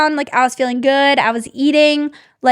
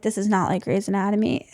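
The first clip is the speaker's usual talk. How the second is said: laughing; 3 semitones lower, 4 dB quieter than usual. Retold or imitated. Joking to husband during C-section.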